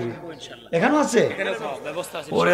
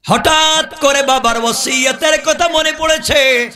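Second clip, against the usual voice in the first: melodic preaching; 3 dB louder than usual. Real, not acted. Preacher telling the crowd a desert tale, chanted. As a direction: chant the tale, stretching phrase endings.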